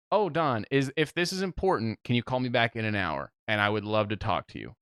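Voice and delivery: mild show of politeness; cordial. Retold or imitated. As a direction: ask sweetly and courteously. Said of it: "And I'm so cordial".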